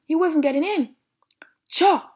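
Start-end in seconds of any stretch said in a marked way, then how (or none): 1.7-2.1 short, high, loud outburst; shouted. Acted. Bad dog failing to get in, shouted. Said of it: "shouted the bad dog".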